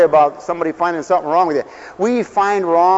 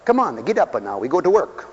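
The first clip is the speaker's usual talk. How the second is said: gruff father; 3 semitones lower, 5 dB quieter than usual. Retold or imitated. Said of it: "They didn't say it like that".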